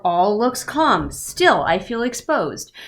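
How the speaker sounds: slow, drawn-out literary read; slow dramatic reading. Shown as a demonstration. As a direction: savor each word slowly.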